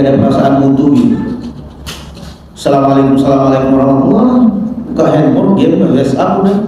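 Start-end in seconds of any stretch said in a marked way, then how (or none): 2.6-4.9 rushed offhand salam. Acted. Careless worshipper rushing out.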